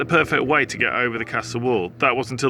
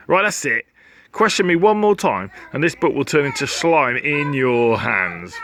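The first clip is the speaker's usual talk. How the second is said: playfully cross, louder; mock threat; 3 semitones higher, 4 dB louder than usual. Real, not acted. Narrator threatening the questioning reader. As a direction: scold the reader.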